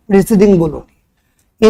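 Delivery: प्रीसीडिंग said slowly with weight; slow stressed correct term. Shown as a demonstration. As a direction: lean on प्रीसीडिंग, slow and deliberate. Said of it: "previous नहीं बोलोगे". (प्रीसीडिंग धीरे और ज़ोर देकर)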